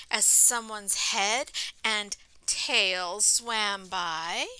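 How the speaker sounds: story read-aloud. A narrator's reading. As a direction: read it out to children, slowing for the refrain. Reading picture book aloud to children.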